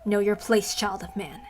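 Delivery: know your place said at normal pace, falling on place; a quick cold order; curt haughty command. Acted. The goddess puts Rika down, curt. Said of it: "I need to think of a voice for her".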